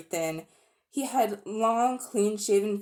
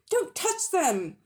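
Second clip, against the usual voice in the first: urgent warning; 10 semitones higher, slower than usual. Acted. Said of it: "he shouted".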